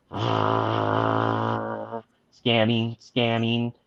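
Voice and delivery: low, quiet robotic readout; crazy computer voice, kept low. Acted. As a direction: drop into a soft computer monotone.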